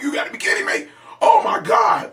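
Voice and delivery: high, breathy half-shouted disbelief; excited disbelief. Retold or imitated. Fan in the theater, yelping high in disbelief. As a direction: yelp it like you can't believe it. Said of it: "I was like".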